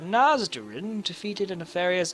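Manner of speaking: measured fairy-tale narration; reading an old legend aloud; storyteller reading. Acted. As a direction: tell it to gathered children.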